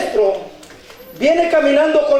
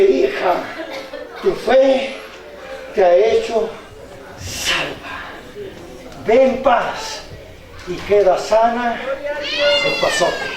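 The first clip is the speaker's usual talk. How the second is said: tender Jesus; 3 dB quieter than usual. Acted. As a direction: speak softly as a healer. Jesús responde a la mujer. (Jesús sereno y tierno)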